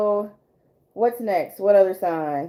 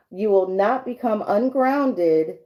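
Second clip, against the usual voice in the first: card reading voice. Acted. Rereads card message.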